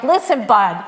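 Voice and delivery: a strong admonishing rebuke; stern rebuke. Shown as a demonstration. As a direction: tell him off firmly. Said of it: "it's a strong, strong word".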